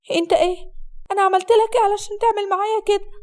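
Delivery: high-pitched, anguished reproach; tearful. Acted. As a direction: plead as a bride in tears. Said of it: "حسناء بدموع". (بدموع وقهر)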